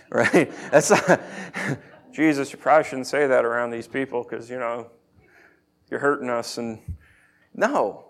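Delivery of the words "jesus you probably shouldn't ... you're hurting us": soft, low, tentative aside; timid mild objection. Pretend. Peter as he was not, meekly correcting Jesus. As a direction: quietly hedge a gentle correction. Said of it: "angry conversation. It's not like".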